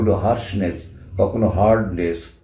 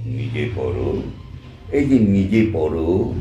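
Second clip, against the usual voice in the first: lower, curt command; the king dismissing her gift; offstage king's voice; 5 semitones lower than usual. Retold or imitated. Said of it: "সেই নেপথ্যে রাজাতে প্রথম যে বাক্যটা উচ্চারণ করতেন".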